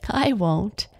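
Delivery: light laughing promise. Acted. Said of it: "Astrid laughed".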